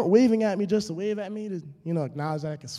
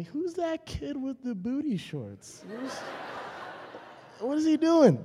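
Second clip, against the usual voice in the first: mocking onlooker; 8 semitones higher, 3 dB quieter than usual. Beachgoers mocking him.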